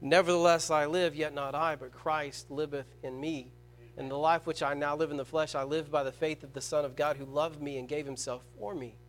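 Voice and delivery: quiet reverent reading of the apostle's words; soft scripture recital. Acted. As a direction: let the verse sink in quietly. Quotes the apostle Paul.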